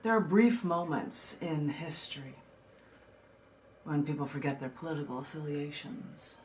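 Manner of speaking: measured, deliberate poetry reading with pauses; poem reading. Acted. Reads her poem aloud.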